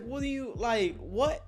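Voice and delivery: high, confused stammer; baffled. Retold or imitated. To Mark bragging about the girl, high baffled sputter. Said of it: "So I'm like".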